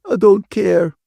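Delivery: high, loud tearful outburst; sobbing. A narrator's reading. Ferguson breaks down as Catherine holds her, acted sobbing. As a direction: cry it out in distress. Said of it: "Ferguson sobbed".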